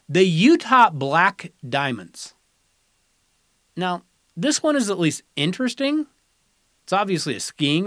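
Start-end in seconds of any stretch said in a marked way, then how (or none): 0.1-2.3 drawn-out reveal of the name, a bit louder; slow name announcement. Acted. Host unveiling a proposed team name, slowly announced. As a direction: announce it slowly like a draft pick. Reading out candidate team names.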